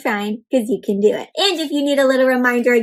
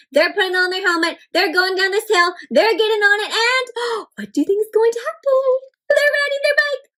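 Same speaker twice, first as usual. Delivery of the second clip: building excitement; 8 semitones higher than usual. Acted. Teacher narrates the child's first bike ride, rising with excitement. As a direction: pitch climbing higher and higher as the bike takes off.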